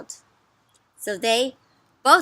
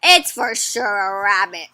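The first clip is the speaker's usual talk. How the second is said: insistent character; 3 semitones lower, 6 dB louder than usual. Acted. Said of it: "says this person".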